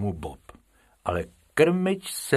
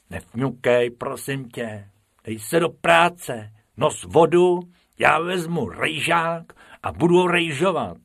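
louder, brisk rabbit voice; Bob in charge; 5 semitones higher, 4 dB louder than usual. Acted. Bob ordering Bobek to work, brisk.

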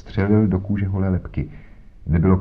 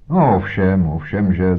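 snorting; 4 dB louder than usual. Acted. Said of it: "zafuněl".

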